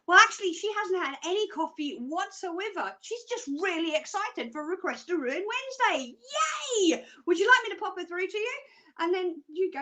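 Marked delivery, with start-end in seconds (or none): 0.1-8.6 lively imitation of a chirpy receptionist, higher pitched; mock receptionist. Receptionist explaining her to a caller, mock chirpy. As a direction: play the receptionist, swooping up on the cheer. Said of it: "And the receptionist will go".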